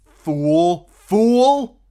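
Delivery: high, loud inner scream. A narrator's reading. Tyrion's inner voice screaming at him, high and loud. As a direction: hurl the word at yourself. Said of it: "the voice inside him screamed".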